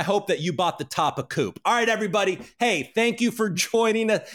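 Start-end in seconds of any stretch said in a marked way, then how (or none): 1.6-4.3 high, bright mock host voice; mock cheery sign-off. Real, not acted. Wrapping the stream after a rant, mock cheerful. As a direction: play a chirpy host signing off.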